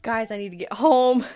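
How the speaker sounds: loud, building retold panic; freaking out. Teen calling to friends at school, freaking out. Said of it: "I was freaking out".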